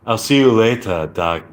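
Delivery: practised British accent, R dropped. Shown as a demonstration. Signing off as practice, attempted British accent. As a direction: try a careful British accent, open vowels. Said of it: "British accent lesson".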